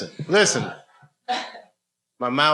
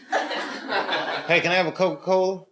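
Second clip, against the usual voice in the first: mock British accent; 6 semitones higher, slower than usual. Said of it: "I wanna learn how to talk like you".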